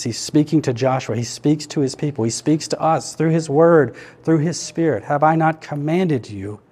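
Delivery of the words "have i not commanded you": slow, weighted "commanded"; deliberate emphasis on "commanded"; stress on commanded. Shown as a demonstration. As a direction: lean on the word "commanded". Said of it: "emphasize a different word".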